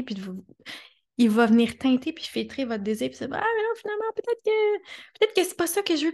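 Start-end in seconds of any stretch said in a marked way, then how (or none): 3.4-6.1 high-pitched hesitant mental voice; doubting mind. Acted. The mind talking you out of your desire, high doubting voice. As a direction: go way up high, wavering with second thoughts. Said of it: "votre mental veut vraiment vous empêcher".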